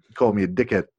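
Korg accent impression. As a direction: complain in a lightly done Korg accent. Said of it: "Don't do the accent".

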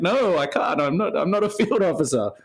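lightly acted objection, pitch lifted; mock protest. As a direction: play the desk analyst begging off. Acting out Jack Ryan's reluctant reply.

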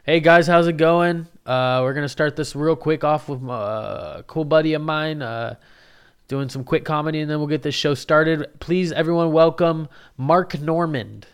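a lightly voiced emcee, hyping up the small room; imitating the MC. Emcee at an open mic introducing the next comic, mock hype. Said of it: "he goes".

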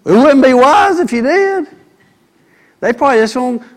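sudden emphasis. Acted. Preacher exclaims.

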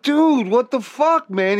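shocked protest. Retold or imitated. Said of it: "I'm like".

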